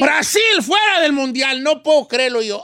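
hammed-up cry of disbelief; loud, theatrical disbelief; mock outraged shout. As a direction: shout it like the loss is a personal tragedy. Mock outrage at Brazil's exit.

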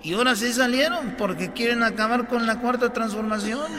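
presidente pausado. Acted. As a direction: explain it unhurriedly, like a softly spoken president. Sigue la parodia del presidente. (presidente que explica lento y bajito)

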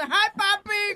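put-on high, loud Latina-accented come-on; mock Latina accent. Arguing why the top-paid Latina actress succeeds, mock Latina accent. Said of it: "Es por el acento ese".

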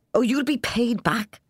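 put-on high excited old man; eager, knee-slapping old man. A narrator's reading. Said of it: "old Ryan said excitedly".

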